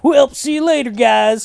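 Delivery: high, sing-out farewell; breezy goodbye. Retold or imitated. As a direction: toss off a cheery exit line. Acted breezy goodbye as concert starts.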